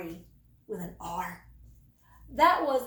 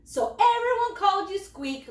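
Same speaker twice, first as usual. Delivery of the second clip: laughing; 7 semitones higher, 5 dB louder than usual. A narrator's reading. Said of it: "laughed Bruno".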